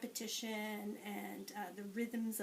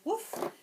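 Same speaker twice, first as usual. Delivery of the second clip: dog woof; 12 semitones higher, 5 dB louder than usual. Shown as a demonstration. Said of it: "and the dog says".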